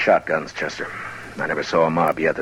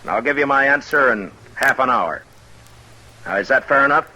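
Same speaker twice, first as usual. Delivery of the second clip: addressing a crowd; 6 semitones higher than usual. Acted. Marshal addressing the mob.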